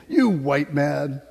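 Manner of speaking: slow, drawn-out island voice imitating locals; mock local accent. Preacher mimics islanders calling him white man, slowly. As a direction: imitate a Ni Vanuatu clerk, slow. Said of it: "They'll just say".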